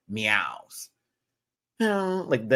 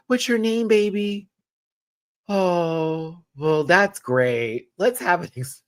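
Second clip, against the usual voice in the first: fan gushing; 6 semitones higher, 4 dB louder, slower than usual. Retold or imitated. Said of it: "freaking out over her".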